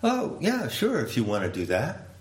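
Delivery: jumps high on the oh, easy agreement; eager host. Pretend. Host agreeing to go to market, cheerfully. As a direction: say yes gladly, a lightly voiced teacher. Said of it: "T T responds".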